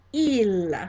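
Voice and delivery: "il" said as French "eel", held out; model pronunciation. Shown as a demonstration. Teacher has class repeat the word for he, model pronunciation. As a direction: model French "il" with a clear final l. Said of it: "pronounce after me".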